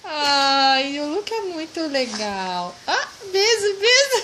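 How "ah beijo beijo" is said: excited. Real, not acted. Mother praising baby's kiss.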